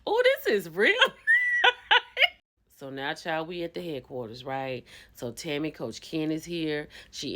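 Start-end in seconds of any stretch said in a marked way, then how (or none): 0.1-2.3 slow, drawn-out swooning ooh; mock admiring coo. Retelling the guy cooing over the nice house.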